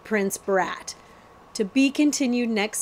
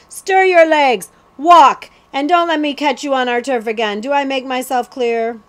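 loud, higher bullying threat; threatening outlaw; 4 semitones higher, 7 dB louder than usual. Acted. The outlaw threatens the boys to keep off his turf, loud and menacing. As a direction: bark the warning at the boys.

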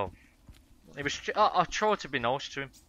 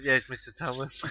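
laughing. Real, not acted. Laughing at friend.

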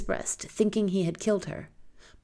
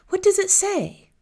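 whispered question; 6 dB louder than usual. Acted. Girl asks robber quietly.

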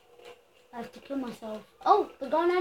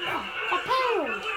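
laughing surprise; 4 semitones higher, slower than usual. Real, not acted. Spots a pound in game.

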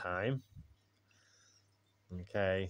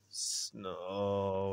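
mock snore. A narrator's reading. Ted's snore voiced in story.

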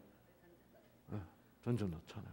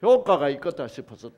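ordinary delivery

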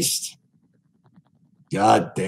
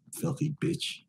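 hissed under the breath; whispered insult; 8 dB quieter than usual. Real, not acted. Streamer mocks a stranger after the call, whispering. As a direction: whisper it with contempt.

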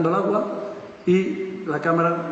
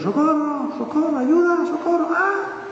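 much higher mock screams for help; cries for help; 12 semitones higher, slower than usual. Drowning passengers calling from the water, high mock screams. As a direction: call out like drowning people far away.

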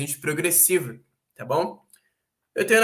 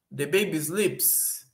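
slow test read; 3 dB quieter, much slower than usual. Shown as a demonstration. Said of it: "testing options in sentence".

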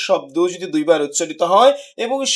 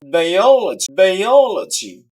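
"বায়োলজি" with stress on ও in য়ো; stress on third-last; 4 dB louder, slower than usual. Shown as a demonstration. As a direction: punch and stretch য়ো in "বায়োলজি". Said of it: "third from the last syllable". ("বায়োলজি"-র য়ো-তে জোর)

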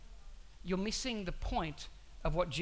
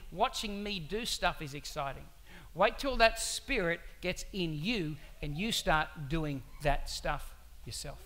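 gentle reassurance; slower than usual. Retold or imitated. Jesus gently explains to disciples.

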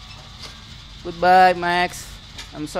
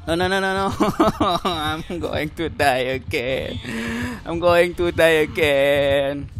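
laughing panic. Real, not acted. Being chased, laughing.

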